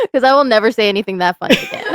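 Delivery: laughing. Real, not acted. Laughing at own joke.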